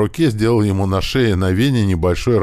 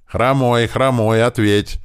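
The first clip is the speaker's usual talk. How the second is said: higher, louder panicked radio call; frightened yelling; 6 semitones higher, 4 dB louder, slower than usual. Acted. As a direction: yell the name in fear. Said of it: "заорал от испуга Антошка".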